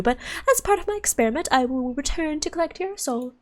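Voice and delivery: theatrical, condescending parting speech; amused villain. Acted. Villain promises to collect soul, amused menace. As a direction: take leave with haughty amusement.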